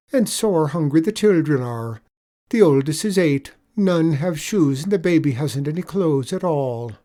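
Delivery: sly leprechaun. Acted. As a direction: lay the sorrow on thick.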